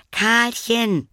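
high call through the door; child calling a name. Acted. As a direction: call her sister's name high and loud. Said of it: "rief Lilly".

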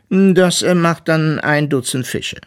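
high, loud walrus voice with a hesitant 'äh'; name the price as a walrus, pitched high; weises Walross, zögernd geschäftlich. A narrator's reading. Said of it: "räusperte sich kurz". (hohe Walrossstimme, zögernd fordernd)

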